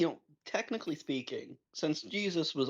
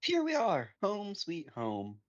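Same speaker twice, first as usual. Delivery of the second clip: cheerful hostess voice; 5 semitones higher, slower than usual. Acted. Voicing hostess line.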